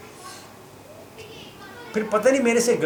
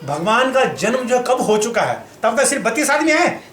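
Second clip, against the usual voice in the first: heated and higher-pitched, laughing through it; mock argument, pitched up with laughter; raised voice; 4 semitones higher than usual. Arguing with the temple man over the Gita, voice rising. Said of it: "आवाज़ थोड़ी तेज हो गई".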